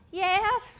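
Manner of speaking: half-hearted cheer, not too sure; tentative yell. Acted. Class answering the Zumba teacher, a tentative mock yell. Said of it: "we yell a tad tentatively".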